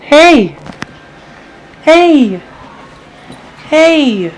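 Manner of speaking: high, loud call to the puppy; high pet voice. Real, not acted. Owner greets her puppy in a high, loud pet voice.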